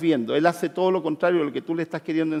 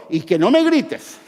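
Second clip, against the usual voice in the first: mock yell; 4 semitones higher, 6 dB louder than usual. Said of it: "los que tienen el afán de control".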